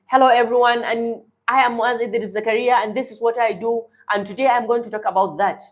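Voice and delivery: high chest voice, hurried at the end; speaking from the chest. Shown as a demonstration. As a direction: push it up from the chest, shallow. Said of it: "if I want to speak from my chest, I'll be speaking".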